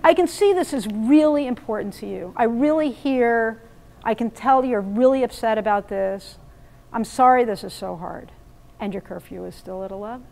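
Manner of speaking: genuine, caring acknowledgement, then a calm firm limit; mean every word, then hold the line; honest empathy before the curfew rule; sincere validation. Shown as a demonstration. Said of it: "You know, you can say".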